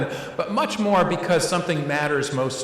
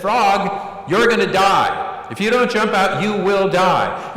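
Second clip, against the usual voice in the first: louder, slowed warning to the frog, hammed up; mock scare warning; 3 semitones higher, 4 dB louder, slower than usual. Therapist warns the frog it will die, mock loud scare. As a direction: spell out the danger to scare it. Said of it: "to scare the crap out of the frog".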